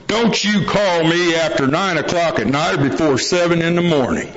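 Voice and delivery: lightly voiced old hand's warning; old-timer laying down the law. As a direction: imitate a meeting veteran setting his rule. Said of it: "a guy at a meeting one time, and he goes".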